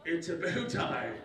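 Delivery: slow British correction; British accent. Acted. New boy corrects classmate about bow tie, British accent. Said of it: "I spoke British English".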